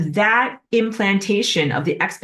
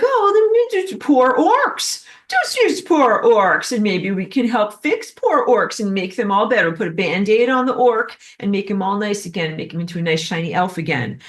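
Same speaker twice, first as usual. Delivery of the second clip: orc fixing voice; 3 semitones higher than usual. Retold or imitated. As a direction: coo over the poor orcs like a well-meaning helper. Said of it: "my orc fixing voice".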